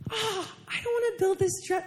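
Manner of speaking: high, tearful little whine; almost crying. Retold or imitated. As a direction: whine it softly, on the verge of tears. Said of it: "I'm almost crying right now".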